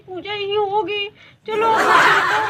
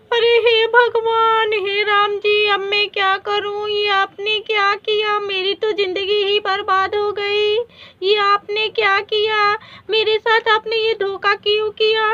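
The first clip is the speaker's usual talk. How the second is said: shocked wailing; 2 semitones higher, 4 dB louder than usual. Acted. Wife discovers husband's second marriage.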